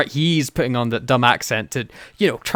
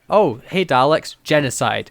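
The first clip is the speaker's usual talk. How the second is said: mocking imitation; 3 dB louder than usual. Host parodying the Doctor's lazy solution, mocking. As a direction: toss it off as a glib routine. Mocks the Doctor's repeated easy fix.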